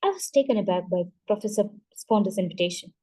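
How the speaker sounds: ordinary delivery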